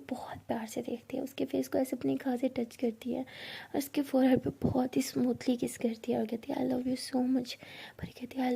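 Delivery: soft, breathy story whisper for a tender moment; intimate whisper. A narrator's reading. Narrator sharing a couple's tender hug, in a soft whisper. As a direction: hush the voice right down, as if not to break the moment.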